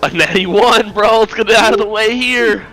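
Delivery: excited. Real, not acted. Hyped for a natural one.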